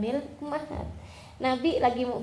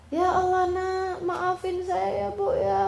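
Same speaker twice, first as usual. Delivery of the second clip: higher, slow tearful plea; pleading son; 8 semitones higher, slower than usual. Retold or imitated. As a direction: beg for forgiveness, voice breaking. Son begging mother's forgiveness.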